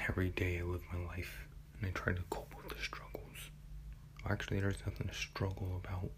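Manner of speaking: soft, subdued musing; hushed confessional monologue. Acted. Podcaster confides about coping with struggles, hushed.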